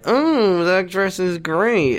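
high, drawn-out fake approval; feigned admiration. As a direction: coo over it with put-on delight. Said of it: "like, pretends that she".

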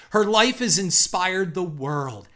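slow, mock-grand tribute; hammed-up online reverence; mock all-caps gushing. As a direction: sarcastically proclaim it, stretching the key words. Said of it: "in all caps, like she's twelve years old".

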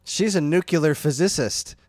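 "nuclear physicist" said with a botched pronunciation; mock mispronunciation. Co-host quoting the actress's film line, mock mispronunciation. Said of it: "that's actually how it's pronounced".

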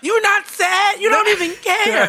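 half-crying, half-laughing scold; mock self-scolding. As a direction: tell yourself off, incredulous.

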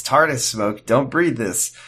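subdued mock product-demo host; lightly voiced deadpan demonstrator; Will It Blend voice. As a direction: say it like a hint of a demo-video host. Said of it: "will it blend voice".

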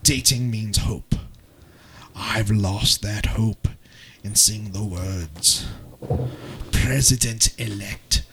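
put-on a broken English accent for a dramatic blog reading; a shaky attempt at a British accent, read with drama. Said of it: "the English accent".

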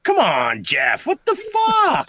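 playful scolding, leaping high at the end; mock exasperation. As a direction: rib a friend for blowing it. Mock scolding over botched name.

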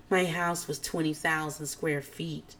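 lightly voiced Ramona bragging, quiet and slow; a soft, slow hint of a snobby brag; mock Ramona boast. Renee mocking Ramona's big house, quiet slow brag. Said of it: "she pretends to be Ramona and says".

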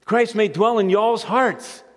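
slow, light Southern drawl on "y'all's"; Southern reading. Shown as a demonstration. Preacher reading the verse Southern style for the congregation, light accent. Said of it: "they say in the South".

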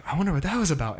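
a touch of nervous innocence, pitched a little up; mock nervous tone. Intern nervously fishing the pastor for help, mildly nervous. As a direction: play dumb nervously to the boss. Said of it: "in a real nervous tone".

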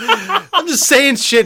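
loud, high, laughing fake fury; half-yell the insults while cracking up; laughing mock rant. Real, not acted. Friend laughs while ranting at his co-host about Christmas.

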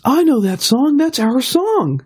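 mock European accent, drawn out at the end. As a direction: raise the voice for a hint of European accent. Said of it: "she has a European accent".

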